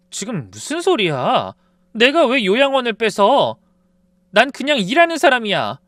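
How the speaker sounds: wife pushing back against the accusation; indignant protest. A narrator's reading. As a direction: defend yourself, getting heated.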